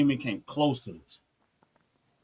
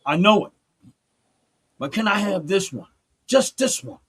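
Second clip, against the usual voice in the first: pleading prayer; 3 semitones higher than usual. Retold or imitated. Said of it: "talking to God so many nights".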